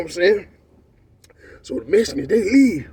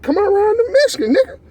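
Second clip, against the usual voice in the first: calling out a challenge; 12 semitones higher, faster than usual. Retold or imitated. Taunting a rival from the doorway.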